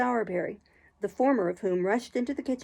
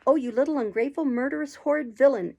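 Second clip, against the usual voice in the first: loud shrieking insults; screaming; 4 semitones higher, 5 dB louder than usual. A narrator's reading. Charlotte screaming at Oliver while hitting him. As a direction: shriek each word with a blow. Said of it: "a scream for the benefit of society".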